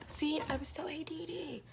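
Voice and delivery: quick unvoiced whisper; ASMR whisper. Real, not acted. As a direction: breathe it out as ASMR. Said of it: "A S M R".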